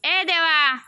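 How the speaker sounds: loud call of the name. Real, not acted. Calling son.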